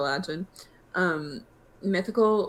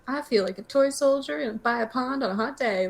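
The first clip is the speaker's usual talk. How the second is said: Southern grandma voice; 5 semitones higher than usual. Retold or imitated. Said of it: "to sound like a Southern grandma".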